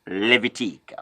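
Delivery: Levitique said "lay-vee-TEEK"; Levitique with a crisp French -teek ending; French pronunciation. Shown as a demonstration. Teacher models it for Anglophones, Levitique as "lay-vee-TEEK". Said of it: "pronounce Leviticus in French".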